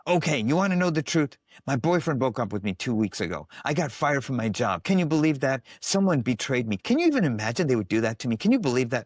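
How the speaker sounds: unload the grievances in a rush; angry outburst. Retold or imitated. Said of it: "I heard rage".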